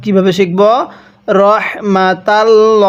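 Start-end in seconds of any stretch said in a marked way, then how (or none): 1.4-2.9 রহমাতাল্লাহ with a short র, not রাহমা. Shown as a demonstration. Teacher demonstrates the correct রহমাতাল্লাহ. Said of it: "এটাকে রাহমা পড়ব না".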